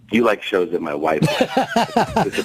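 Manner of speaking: slow, drawn-out mock put-down; implied put-down. Boxer belittling comedian's taste in shows, slow mock put-down. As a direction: imitate a slow, pointed dig. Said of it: "But he said it like".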